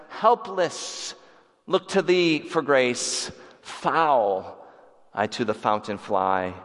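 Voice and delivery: slow, heartfelt reading of hymn lines; hymn recitation. Acted. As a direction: recite it like a prayer. Recites the hymn just sung.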